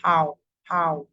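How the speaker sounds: "How" with the ow opened wide; wide-mouthed vowel. Shown as a demonstration. Teacher demonstrating the ow sound, wide-mouthed vowel. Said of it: "We open our mouth wide".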